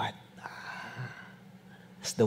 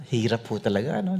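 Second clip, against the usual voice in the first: normal talking voice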